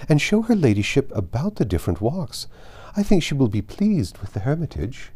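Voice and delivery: a hint of a flustered hostess; fussy mother. Mrs Bennet fussing over guest.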